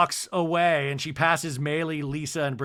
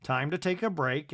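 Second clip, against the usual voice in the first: soothing husband; 3 dB quieter than usual. Retold or imitated. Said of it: "And Todd's like".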